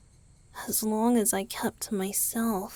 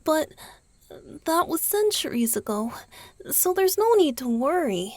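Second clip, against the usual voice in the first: louder, faster, out of the whisper; voiced reassurance; 6 semitones higher, 10 dB louder, faster than usual. Vampire reassuring the listener there's no danger, voiced and louder. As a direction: brush it off with a voiced, quick reassurance.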